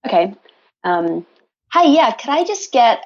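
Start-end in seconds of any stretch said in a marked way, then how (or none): 1.7-3.0 put-on Canadian accent, pitched higher; higher-pitched mock Canadian. Shown as a demonstration. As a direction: order in an imitation Canadian accent. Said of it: "we all need to know your Canadian accent".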